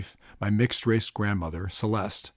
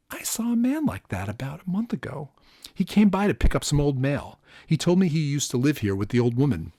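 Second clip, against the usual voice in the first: Latino homeowner; 6 semitones higher than usual. A narrator's reading. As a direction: play the nervous homeowner answering.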